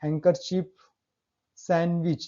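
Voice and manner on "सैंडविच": सैंडविच with the d dropped, "san-wich"; silent d. Shown as a demonstration. Teacher modelling the word for students, silent d in सैंडविच. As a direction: say सैंडविच without any d. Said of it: "सैंडविच नहीं बोल रहा हूँ".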